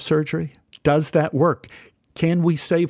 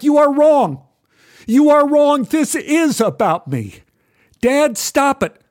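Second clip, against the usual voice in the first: much higher and louder, slow hammered words; angry yell; 11 semitones higher, 5 dB louder than usual. Retold or imitated. Father yelling at his son, refusing to give up the cat. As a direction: yell it, every word a blow. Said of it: "I yelled at my dear son".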